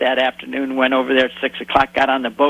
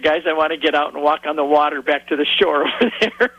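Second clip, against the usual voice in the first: laughing through a quote. Retold or imitated.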